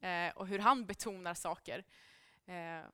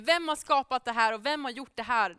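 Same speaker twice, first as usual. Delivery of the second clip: retold outburst, somewhat louder; mock outburst; 2 semitones higher, 6 dB louder than usual. Speaker retelling God's challenge to Moses, mildly exploding. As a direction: imitate an exploding God with moderate force. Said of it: "så exploderar han och säger".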